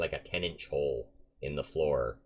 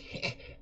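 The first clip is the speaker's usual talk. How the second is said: quiet chuckle; 6 dB quieter than usual. Acted. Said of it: "quiet chuckling".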